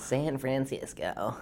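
put-on stretched-out, overdone American accent; exaggerated American accent. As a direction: echo it back slowly in a hammed-up American accent.

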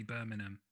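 BIRMINGHAM with the G skipped; own pronunciation. Shown as a demonstration. Podcast guest showing people who tease them, own pronunciation. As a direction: say "Birmingham" as "BUR-min-um", no G. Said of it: "That's how I say it".

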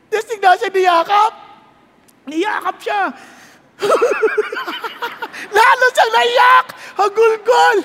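high, loud, tearful preaching cry; emotional shout. Acted. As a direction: cry out the embrace. (mataas at malakas na umiiyak na sigaw)

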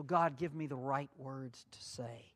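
a hushed whisper to God; whispered prayer. Acted. Preacher whispering his prayer for the right words. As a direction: breathe the words as a secret plea.

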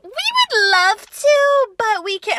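very high, drawn-out sweet regret; mock a gullible friend in a loud, high singsong; hammed-up innocent politeness, stretched way out; Mallory, naive. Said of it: "Mallory was still being pretty naive".

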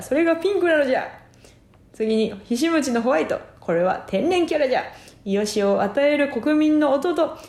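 lightly voiced creaky wise old man; hermit voice. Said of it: "わしはひしもち仙人じゃ".

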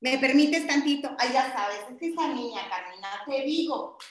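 a mother venting about her daughter to a friend; mom gossiping on phone. Pretend. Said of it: "tú eres mi mami".

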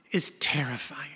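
breathed out; whispered. A narrator's reading. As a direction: drop to a whisper for weight. Sermon point, dropped voice.

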